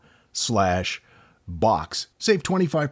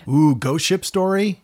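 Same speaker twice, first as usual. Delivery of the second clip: excited; 9 semitones higher, 5 dB louder than usual. Real, not acted. Excited reaction to ghost ship.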